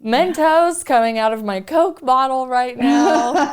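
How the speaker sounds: overwhelmed gush. Retold or imitated. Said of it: "I was like".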